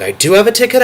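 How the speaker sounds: "I do have a ticket" jumps high again, hopeful. Retold or imitated. Retelling the ticket seesaw, hopeful high take. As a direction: bounce back up, eager. Ticket hopes going back and forth.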